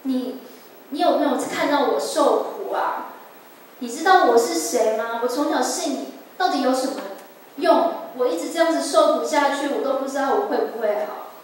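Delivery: mild retold reproach, pressing the questions; complaining to God. Patient questioning God in her suffering, retold complaint. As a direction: plead your grievance with some force, as a remembered prayer. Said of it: "我甚至有点抱怨上帝说".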